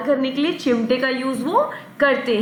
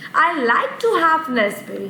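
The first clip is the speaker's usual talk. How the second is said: slow model sentence; slower than usual. Shown as a demonstration. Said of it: "teacher models example sentence".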